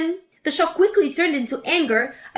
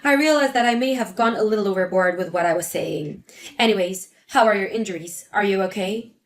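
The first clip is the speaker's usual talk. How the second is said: put-on lower, half-hearted old mother-in-law; grudging apology; 5 semitones lower than usual. Mother-in-law reluctantly apologizing to Mary, lower and grudging. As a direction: apologize because you're made to.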